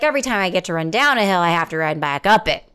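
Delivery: rushed, gloomy glass-half-empty take; glum pessimist. Retold or imitated. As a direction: rattle it off like a complaint. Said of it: "Do you hear the difference there?".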